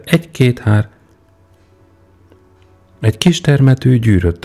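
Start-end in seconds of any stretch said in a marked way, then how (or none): 0.0-0.9 dictating count. Acted. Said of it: "diktálta Péter".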